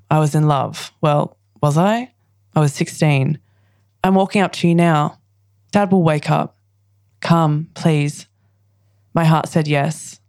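measured recital, pausing between lines; poem reading. Acted. Poet reads her poem about a past boy, measured recital. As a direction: read it as short confessional lines, dropping on the last.

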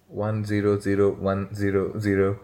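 slow, even robot voice; robot saying binary. Acted. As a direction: recite the digits like a machine. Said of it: "making a robot reference".

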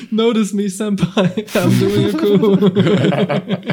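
put-on high, breathy anime girl plea; cute anime streamer. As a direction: squeal it like a fangirl. Mock anime plea to Senpai.

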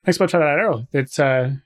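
lightly put-on Irish trapper; Irish accent. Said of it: "easier to keep it Irish".

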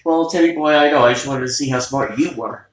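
put-on half-hearted Russian accent; a loose stab at a Russian accent; barely-there Russian accent; attempted Russian accent. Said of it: "I can't do a Russian accent".

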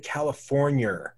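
California with a hard R on the end, "Californi-er"; hard R accent. Retold or imitated. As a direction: end California on a heavy, curled R. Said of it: "hard R came out".

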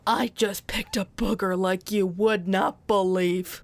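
conspiratorial whisper. Acted. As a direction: lean in and whisper it. Mom whispers secret to daughter.

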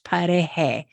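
pareje with the j as a soft English h. Shown as a demonstration. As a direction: say pareje with a breathy h, not a throaty j. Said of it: "I'm still so much like an H".

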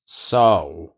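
low, cool villain greeting; low menacing. Acted. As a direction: drop your voice for the confrontation. Garfield confronting villains.

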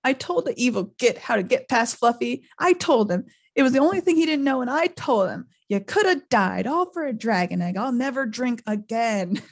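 high, wailing self-reproach; tearful mock lament; acted sobbing. A narrator's reading. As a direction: blubber through a hammed-up confession. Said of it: "he sobbed, his face in his hands".

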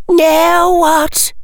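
put-on very high girl's character voice; high-pitched anxious question; a little high. A narrator's reading. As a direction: pitch it right up, uneasy. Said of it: "her voice a little high".

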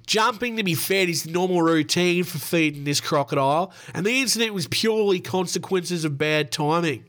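hammed-up Australian accent; Northern Queensland accent. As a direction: quote him in an Aussie accent from up north. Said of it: "My best Northern Queensland accent".

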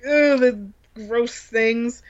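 imitating a man with the willies, slow and mild; slow disgusted groan. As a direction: drag it out, mildly grossed out. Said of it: "freaking out, shaking".

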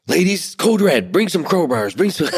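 high, slow mock rallying cry; joking emergency call. Friend pretending to dial the ladies for a fight, jokingly urgent. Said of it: "jokingly picks up her phone".

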